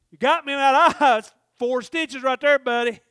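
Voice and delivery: high, loud teasing threat; loud taunt. Retold or imitated. Big Chip reminding him of the eye, loud and high. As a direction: rub it in with a grin.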